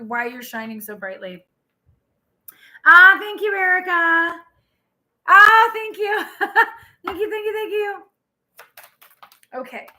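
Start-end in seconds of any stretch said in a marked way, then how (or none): 2.8-8.0 high-pitched delighted thank-yous, loud at first; gushing thanks. Real, not acted. Streamer thanking Erica on the live, high gushing thanks. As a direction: gush thanks up high, easing off after a laugh.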